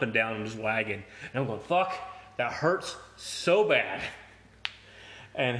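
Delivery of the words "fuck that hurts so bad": mock pained groan. Arm jolting on train tracks.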